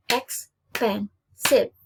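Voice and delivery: very slow, each syllable of expensive stretched apart. Shown as a demonstration. Teacher to class, counting syllables slowly. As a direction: break expensive into its three syllables. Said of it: "three-syllable words".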